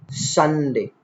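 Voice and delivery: "Sunday" alone, full first syllable, falling; emphasized word. Shown as a demonstration. Teacher picking out the stressed word, emphatic. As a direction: give "Sunday" full weight. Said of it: "while emphasizing".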